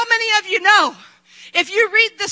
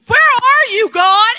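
pleading believer; 3 semitones higher, 5 dB louder, slower than usual. Retold or imitated. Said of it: "All you're saying is".

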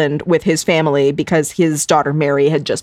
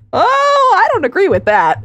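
mock mild protest; 13 semitones higher than usual. Quoting Paul's dry reply.

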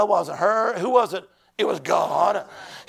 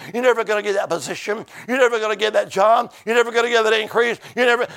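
building from plain to loud jeers; hell's voice rising to a loud sneer; mocking taunt; 4 dB louder than usual. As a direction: taunt him louder each time.

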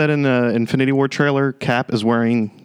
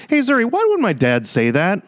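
higher, earnest questioning voice; earnest young king; 5 semitones higher than usual. Retold or imitated. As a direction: ask like a curious young prince. Voicing T'Challa asking Zuri.

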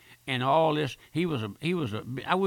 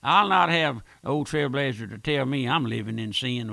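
louder defiant sinner's retort; 6 dB louder than usual. Retold or imitated. A scornful listener defying the preacher, louder defiance. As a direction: rear back and refuse him. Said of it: "reared back and says".

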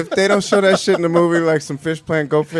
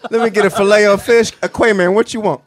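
jokey fast food order; customer ordering; 5 semitones higher, 4 dB louder than usual. Acted.

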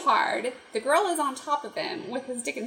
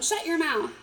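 mock yell; 5 semitones higher than usual. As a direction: bark it at him half in jest. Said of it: "they both yell at him".

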